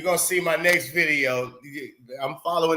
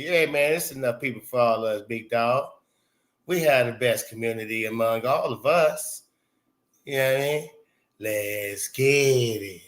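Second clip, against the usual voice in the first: laid-back impression with a long-drawn sign-off; Fly Hippie; 3 semitones lower than usual. Streamer reading Fly Hippie's message, lightly imitated in a laid-back voice. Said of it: "Oh, Fly Hippie say".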